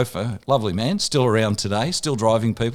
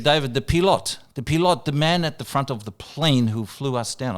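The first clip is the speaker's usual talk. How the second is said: lightly voiced star, higher and deliberate; a singer; 4 semitones higher than usual. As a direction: retell his words with measured emphasis, pitched up. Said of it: "I can't do the accent".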